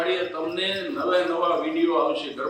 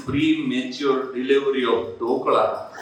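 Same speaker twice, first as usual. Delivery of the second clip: slow punchline; 5 semitones lower, much slower than usual. Retold or imitated. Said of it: "મેં કીધું".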